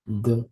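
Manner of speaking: "D-L-T-A" as duh, eh, luh, t, ah; sounding out. Shown as a demonstration. Teacher sounding out delta, isolated letter sounds. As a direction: sound out "D-L-T-A" with long gaps. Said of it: "sound it out".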